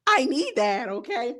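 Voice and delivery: slow, laughing drawl. Real, not acted. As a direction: stretch it out through a laugh. Laughing, dragging it out.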